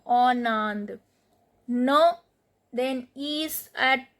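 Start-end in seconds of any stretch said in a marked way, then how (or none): 0.1-1.0 "En Inde" run together as "on-nand"; liaison. Shown as a demonstration. Teacher demonstrating liaison, "En Inde" joined as "on-nand". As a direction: link the N of "En" into "Inde". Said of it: "Here liaison".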